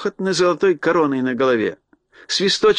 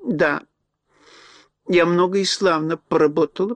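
toothless mumble; 3 semitones higher than usual. Acted. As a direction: mumble like a toothless old lady. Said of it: "прошамкала старушка беззубым ртом".

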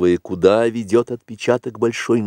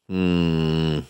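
long closed-mouth "hmm"; low pondering murmur held steady; low muffled hum; 3 semitones lower, 3 dB quieter than usual. A narrator's reading. Bagheera considering the tracks, humming low. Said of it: "глухо кашляя".

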